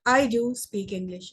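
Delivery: emphatic "do" in the sentence; stress on DO. Shown as a demonstration. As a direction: emphasise the word "do". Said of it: "emphasizing on the word do".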